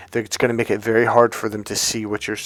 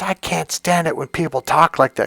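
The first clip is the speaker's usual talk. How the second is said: higher-pitched mock outburst; retold angry yell; 6 semitones higher than usual. Professor fed up with the speaker's wording, retold yell. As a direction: imitate an exasperated complaint, without full volume. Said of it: "he finally yells at me".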